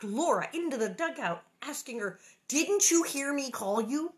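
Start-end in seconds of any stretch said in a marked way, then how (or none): 2.5-4.1 louder, higher, slow scold; scolding mother. A narrator's reading. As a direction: call her out like a worried mother. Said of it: "Ma scolding Laura".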